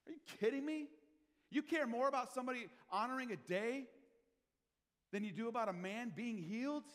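loud, high outraged challenge; angry Jesus. Retold or imitated. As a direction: confront them, indignant. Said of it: "Jesus was angry about that".

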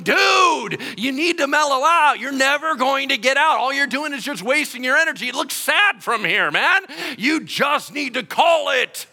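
loud, high taunting yell; mocking shout. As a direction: shout him down from above.

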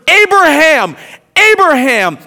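name called loud and high, falling away; emphatic call. Acted. Angel stopping Abraham with the knife, emphatic call. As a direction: call out so it cannot be missed. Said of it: "It's not a whisper".

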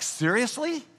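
sharp high rising "Seriously?" in disbelief; stunned disbelief. Retold or imitated. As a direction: ask it as if your jaw just dropped. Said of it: "I was like".

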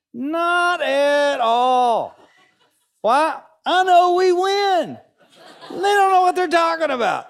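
high, loud laughing brag, very slow on "Not at all"; laughing confidence. Real, not acted. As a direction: gloat with a laugh, sure of the win. Boasting calm at halftime.

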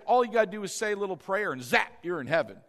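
fast, dismissive parody of a preacher; scornful quick mock sermon line; mocking easy-faith quote. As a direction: rattle it off like a cheap promise. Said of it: "we don't just say".

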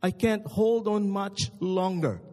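slow, drawn-out plea; pleading. Acted. Dangling man begs God to save him, slow and pleading. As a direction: beg slowly for rescue. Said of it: "The man pleaded".

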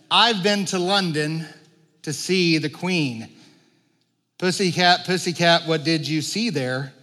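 lightly lilting nursery rhyme; nursery rhyme recital. Acted. Preacher quoting an old rhyme to the congregation, lightly recited. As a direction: recite it in measured rhyme phrases. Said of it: "kind of nursery rhyme that, that went like this".

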